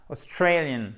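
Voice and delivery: "Australian" stressed on STRAY, no s; correct pronunciation. Shown as a demonstration. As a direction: say "Australian" with reduced start and clear ay. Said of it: "Australian et pas Australians ou Australian". (« Australian » correct, accent sur « strey »)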